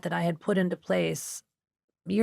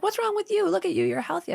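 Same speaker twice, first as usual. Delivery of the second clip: friend's voice; 13 semitones higher than usual. Retold or imitated. Friend's dismissive voice retold.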